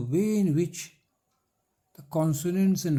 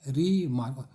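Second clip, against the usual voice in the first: "रीमार्क" lightly divided as री, मार्क; teacher marking the break in "रीमार्क"; two syllables; 2 semitones lower, slower than usual. Shown as a demonstration. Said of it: "syllable दो है".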